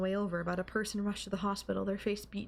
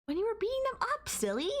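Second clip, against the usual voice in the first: breathless excitement; 8 semitones higher than usual. Acted. Asks how the beating felt.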